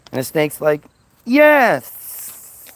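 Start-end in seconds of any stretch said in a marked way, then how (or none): 1.2-2.6 high, loud hissing yes; hissed snake yes. Acted. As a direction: stretch the s like a snake. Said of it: "'Cause that's how snakes talk".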